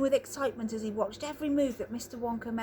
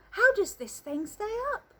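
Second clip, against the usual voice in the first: anxious; 10 semitones higher than usual. Acted. Grandpa Joe, frightened in midair.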